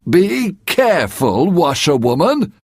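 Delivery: lightly voiced man warning; mild warning. The men warn the washerwoman mildly. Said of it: "The men say".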